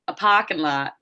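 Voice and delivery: imitated Maine accent, "parking" with the R dropped. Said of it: "first time I ever heard a Maine accent".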